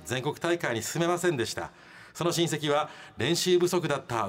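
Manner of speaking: measured, dramatised radio read; letter reading. Acted. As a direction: narrate a listener's grievance with storyteller's timing. Reads listener's letter aloud.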